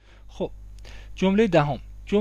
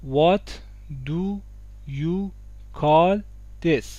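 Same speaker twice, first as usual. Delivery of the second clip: کلمه به کلمه; much slower than usual. Shown as a demonstration. Word by word for learners.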